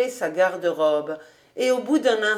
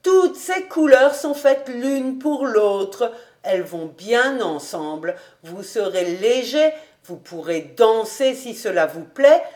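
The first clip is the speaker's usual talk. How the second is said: put-on persuasive old housekeeper; 4 semitones higher, 5 dB louder than usual. Housekeeper telling master what suits him, emphatic persuasion. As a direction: coax him with lively, weighted phrases.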